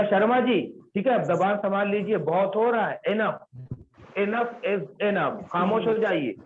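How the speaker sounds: mock warning. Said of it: "कैसे बोला उसने?".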